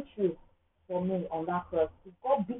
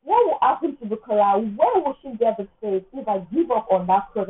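normal talking voice

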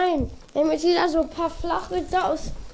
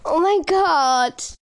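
laughing; much slower than usual. Real, not acted. Laughing at own joke.

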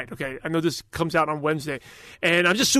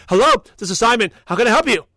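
louder, composed business phone answer; phone greeting; 2 semitones higher, 4 dB louder than usual. Retold or imitated. Answering a prospect's call at four AM, composed phone greeting. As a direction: answer like a pro, not half asleep.

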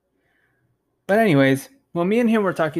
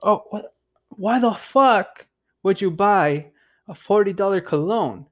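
slow, higher mock disbelief; incredulous cousin; 4 semitones higher than usual. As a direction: imitate a cousin scoffing at the purchase. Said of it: "He's like".

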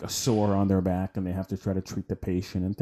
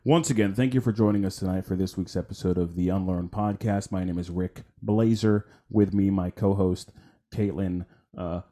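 radio announcer voice. Shown as a demonstration. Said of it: "I was giving them the radio station".

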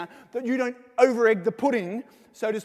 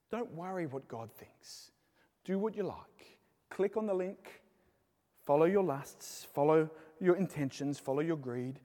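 tempting devilish whisper; 3 semitones lower, 6 dB quieter than usual. Acted. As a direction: lure them in quietly. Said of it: "he whispers a different way".

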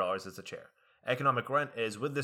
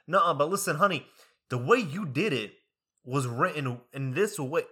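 lightly imitated southern African American accent, louder at the start; 3 semitones higher, 5 dB louder than usual. Older classmate arguing about how it was written, southern African American accent. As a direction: put on a hint of southern African American speech. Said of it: "African American accent, like, southern".

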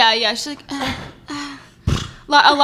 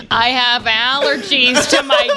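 annoying person voice; slower than usual. Pretend. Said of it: "what would a more annoying person say".

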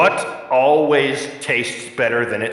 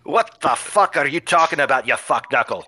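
mock Scottish dwarf hurling insults; lightly put-on Scottish brogue, jeering; bad Scottish accent. Dwarf villain insulting the heroes in Scottish accent. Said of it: "bad Scottish accent".

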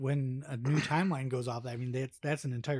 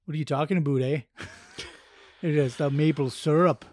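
lightly put-on Canadian accent; a light joking Canadian lilt with eh; 5 dB louder than usual. Friend asks for a Canadian accent, mock Canadian accent. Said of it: "do a Canadian accent".

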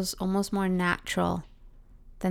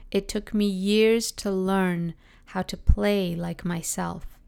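slow, weighted quote; slower than usual. Shown as a demonstration. Speaker repeating a cherished line for listeners to feel, slow and weighted. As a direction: let each word land so it's felt. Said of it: "let me just say it for you again, because maybe you're gonna feel it too".

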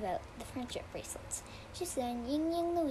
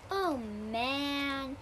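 happy Swiper. A narrator's reading. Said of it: "exclaimed Swiper happily".

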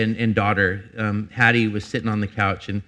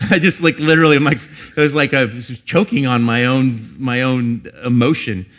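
laughing; 2 semitones higher, 6 dB louder than usual. Real, not acted. Laughing about choking up.

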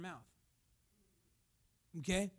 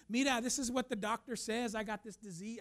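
put-on lightly Spanish-tinged accent; put-on Hispanic accent. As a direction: slip into a light Latino accent. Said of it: "I don't know why I'm using that accent".

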